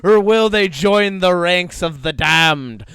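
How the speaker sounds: loud pirate storyteller; booming pirate ending. Acted. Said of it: "say it in a pirate voice".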